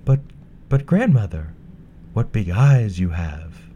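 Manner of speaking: put-on bright, high young girl; a sweet, polite little girl. Girl at the bed.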